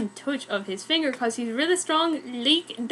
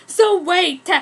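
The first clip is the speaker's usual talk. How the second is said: mock scream; 6 semitones higher, 6 dB louder than usual. A narrator's reading. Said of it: "she screamed".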